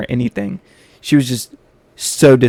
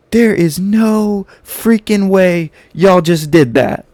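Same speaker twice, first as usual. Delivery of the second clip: stunned teacher; 6 semitones higher, slower than usual. Retold or imitated. Teacher sees the sparks, slow outraged disbelief. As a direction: spell out her outrage word by word. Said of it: "and she's like".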